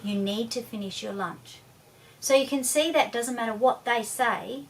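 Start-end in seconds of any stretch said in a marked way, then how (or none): 0.0-1.6 steady, level and a little softer; firm but unruffled, no reaction; calm, even voice. Shown as a demonstration. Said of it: "a very calm, even voice".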